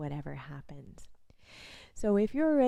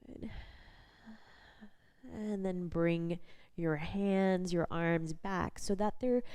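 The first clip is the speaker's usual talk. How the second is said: guided body scan. Real, not acted. Instructor leading a lying-down body scan, calm guided practice voice. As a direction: guide gently with long pauses between instructions.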